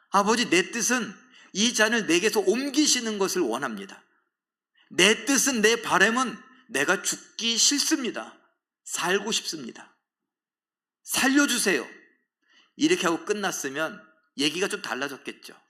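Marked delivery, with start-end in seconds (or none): 0.1-11.9 raised, pleading prayer voice; desperate prayer, rising and louder; anguished plea. Acted. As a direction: cry out to the father, begging. Jesus' Gethsemane prayer voiced.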